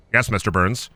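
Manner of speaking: lightly voiced obedient assistant; Smithers. Smithers answering his boss, lightly voiced assistant.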